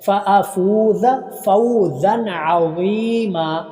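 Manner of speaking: slow chanted recitation, हा held long; Quran recitation. Shown as a demonstration. Teacher reciting Quran for students, slow drawn-out chant. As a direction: recite slowly, stretch the हा. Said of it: "फ़ौज़न कोई हरफ लंबा नहीं".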